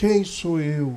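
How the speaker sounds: limp whine. Retelling how someone answers each request, in a mock whiny, limp voice. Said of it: "com aquela voz lamuriosa, com aquela voz mole".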